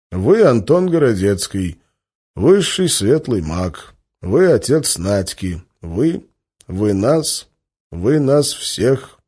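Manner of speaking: slow, stumbling prophecy recital; slow halting recital. Acted. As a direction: falter over the words.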